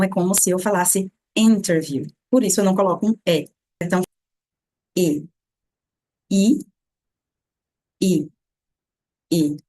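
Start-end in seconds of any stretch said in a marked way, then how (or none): 5.0-9.6 I said lax and short, almost E; isolated I with relaxed face muscles. Shown as a demonstration. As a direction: repeat a slack, brief I. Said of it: "com os músculos relaxados".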